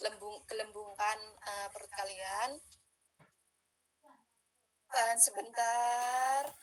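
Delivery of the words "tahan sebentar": slow held instruction. Shown as a demonstration. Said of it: "tarik nafas dalam-dalam dari hidung".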